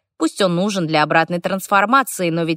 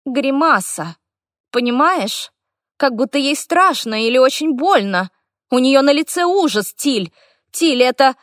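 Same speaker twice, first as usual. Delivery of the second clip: put-on frightened boy; 8 semitones higher than usual. Boy describes horror, rising.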